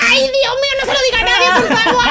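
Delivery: hammed-up horrified plea; mock panic. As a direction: squeal it like a caught kid. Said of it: "Y yo dije".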